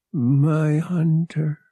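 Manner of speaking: murmured. Acted. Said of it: "she murmured".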